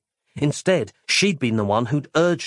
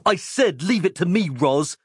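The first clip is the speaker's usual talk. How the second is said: higher, firmer Mike voice; impatient hero; 6 semitones higher than usual. Acted. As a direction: insist curtly. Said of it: "said the doctor".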